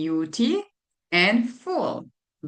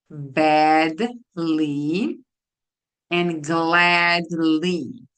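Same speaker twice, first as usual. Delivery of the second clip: slow; 2 semitones lower, slower than usual. Shown as a demonstration. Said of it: "slow model word".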